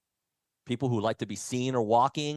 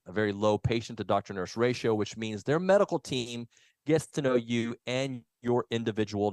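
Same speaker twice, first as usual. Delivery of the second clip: upbeat sponsor read. Acted. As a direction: read it like a radio ad. Reads a sponsor ad.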